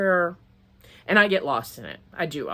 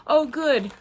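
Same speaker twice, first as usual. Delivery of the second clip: high-pitched oh good; 9 semitones higher, 5 dB louder than usual. Retold or imitated. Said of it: "they're like".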